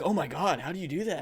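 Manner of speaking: high, wavering imitation of astonishment; mock amazement. Coworkers watching him eat hot sauce, mock amazed.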